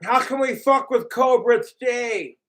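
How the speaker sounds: sneering impression of the trolls; mocking trolls. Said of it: "It's like".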